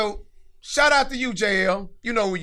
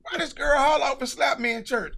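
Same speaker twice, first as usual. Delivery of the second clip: stunned outrage; 5 semitones higher than usual. Retold or imitated. Shock at being slapped.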